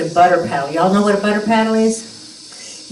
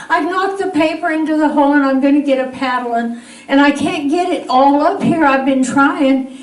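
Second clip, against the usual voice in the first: put-on higher, pleading little-girl voice with a laugh; upset little girl; 5 semitones higher than usual. Retelling, as a scared little girl begging daddy. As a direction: plead like a scared small child.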